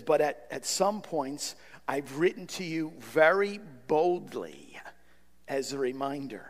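whispered, soft reading of Paul's words; hushed scripture quote. Acted. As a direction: lean in and whisper the verse. Quoting Paul's letter softly.

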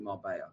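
"Marbella" said Mar-BAY-ya, the double L as a Y sound; "Marbella" the Spanish way, Mar-BAY-ya with no L sound; Spanish pronunciation. Shown as a demonstration. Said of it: "you pronounce it".

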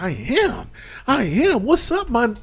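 mock gangster. Mimicking white lady gangster act.

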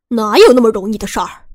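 loud, fast sneering threat; 1 menacing threat. A narrator's reading. Gunman sneering at the narrator, loud and fast. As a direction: spit the words out, menacing.

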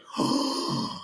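long, breathy intake; theatrical gasp before a comeback; mock gasp. Customer reacting to bouncer's challenge, mock gasp.

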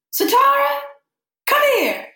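a mother calling out across the house; mom calling. Retold or imitated. Mom calls her from the kitchen.

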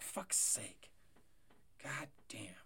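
breathy whispered swearing; whispered curse. Real, not acted. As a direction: curse under your breath. Muttered curse about a player.

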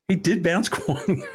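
whispered through laughter; laughing. Real, not acted. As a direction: laugh it out under breath.

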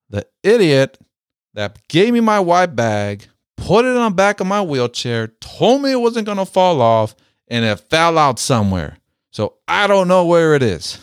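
mock the old vet's irritated rant; grumpy complaint. Retold veteran's irritated complaint.

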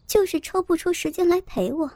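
mock his excuse back, pitch lifted; sneering echo of his words; scornful jab throwing his excuse back. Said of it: "周慧敏冷笑着说".

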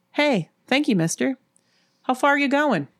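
hitchhiker voice. Acted. Hitchhiker thanks driver getting in.

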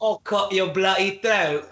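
slow, hammed-up Cockney threat; bad Cockney accent. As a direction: imitate a badly faked Cockney villain. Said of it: "the Cockney accent is so bad".

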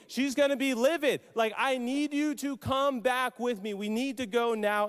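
mildly exasperated, insistent pleading; insist, building from measured to urgent; a bit frustrated. Retold or imitated. A father urging Jesus home to heal his son, frustrated insistence. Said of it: "a bit frustrated".

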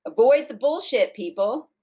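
high, loud tagline sign-off; with gusto. Pretend. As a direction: belt out the slogan with gusto. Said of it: "she said it with some gusto".

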